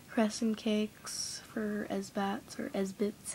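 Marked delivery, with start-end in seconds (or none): 1.9-2.6 Esbats said with an "a", es-bats; Esbats variant. Shown as a demonstration. Offering viewers options, Esbats as "es-bats". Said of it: "however you say it". 2.7-3.3 Esbits said with a short i, es-bits; Esbits variant. Shown as a demonstration. Offering viewers options, Esbits as "es-bits". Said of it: "however you say it".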